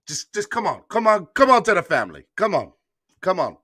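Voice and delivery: hammed-up Italian mobster plea; mobster Italian accent. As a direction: attempt an Italian mobster urging someone in. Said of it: "my mobster Italian accent".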